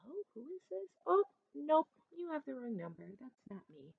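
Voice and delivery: lightly voiced puzzled hello, soft; a hint of a puzzled caller, fading away; soft quizzical phone voice fading out; quiet confused answer. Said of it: "And I'm like".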